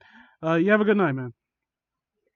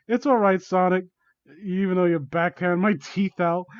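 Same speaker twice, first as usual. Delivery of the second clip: insincere reassurance; 2 semitones higher, 4 dB louder than usual. Acted. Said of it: "as if she didn't really mean it".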